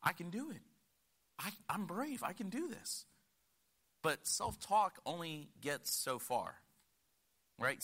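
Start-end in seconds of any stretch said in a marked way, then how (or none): 0.0-3.1 imitating Lottie. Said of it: "like the one that I mentioned with Lottie".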